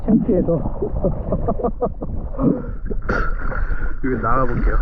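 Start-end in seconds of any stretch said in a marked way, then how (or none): 0.6-4.0 high, loud airy laugh; embarrassed laugh. Real, not acted. Embarrassed in front of walkers.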